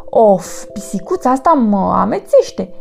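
exclamație amețită. Acted. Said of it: "exclamă ea".

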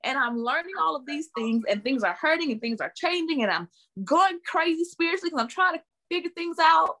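high, rising exasperation with a laugh; laughing exasperated outburst. Real, not acted. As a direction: vent the frustration, voice climbing. Venting about being dismissed.

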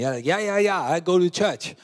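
brushing it off, half-listening; dismissive teen. Retold or imitated. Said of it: "attitude is completely against".

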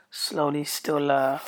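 hoarse, croaky voice; croaked out after being ill. Real, not acted. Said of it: "croaked out".

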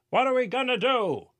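high, worried crowd voice; panicked townsperson. A narrator's reading. A townsperson asking the crowd in panic, high. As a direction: ask in a panic. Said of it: "someone else asked".

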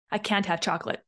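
mock-crying over chocolate; mock whimper. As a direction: whimper it like a sulky dieter. Mocking a whiny can't statement.

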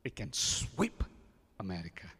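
hushed, breathy whisper; a whispered promise to the congregation. Acted. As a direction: drop to a secret whisper. Preacher drops to a whisper.

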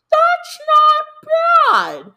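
very high, very slow, loud squeal; hammed-up delight. Gushing to viewers over twelve thousand dollars, a hammed-up high squeal. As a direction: stretch it out in a loud, high, sing-song squeal. Exaggerated reaction to converted amount.

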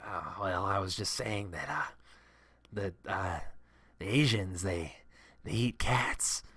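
lightly voiced, teeth-out mumble of a racist coworker; mock Doug, ending in a hushed whisper. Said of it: "he always spoke with his teeth out".

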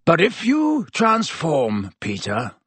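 slow, menacing threat; drawn-out growl of warning. A narrator's reading. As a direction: threaten deliberately, dropping on the name. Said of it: "growled Black".

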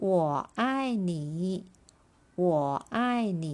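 我 爱 你 with a pause after each syllable. Shown as a demonstration. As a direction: split 我爱你 into separate syllables for the students. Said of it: "ไปดูตัวอย่างประโยคกันค่ะ".

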